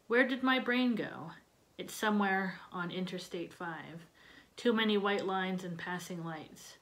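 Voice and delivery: hushed line endings in a measured poetry reading; poem recitation. Acted. Poet reading a psych ward poem to a class, subdued recitation. Reads own poem aloud.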